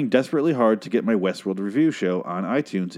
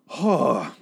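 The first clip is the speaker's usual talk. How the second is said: exasperated sigh; 5 semitones higher than usual. Real, not acted. Exasperated after rant about the light.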